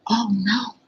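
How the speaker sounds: high, alarmed oh no; dismayed oh no. A narrator's reading. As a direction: cry out at the fall. Reacting to fall on stage.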